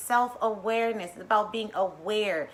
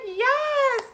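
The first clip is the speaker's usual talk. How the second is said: joyful cry yes; 3 dB louder than usual. Retold or imitated. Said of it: "I'm like".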